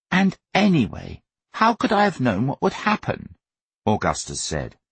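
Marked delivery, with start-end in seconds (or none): 0.1-3.3 put-on high-pitched indignant young son; protesting boy. A narrator's reading. Augustus defending himself to his parents, protesting. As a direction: argue back in a high boy's voice.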